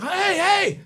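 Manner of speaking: high-pitched retold "hey, hey"; excited, high hollering; excited call. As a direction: call out over a lucky find. Reenacts spotting rolled-up money.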